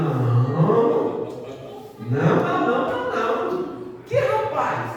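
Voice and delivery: retold shocked denial at the door; surprised refusal. Pastor refusing the unknown car.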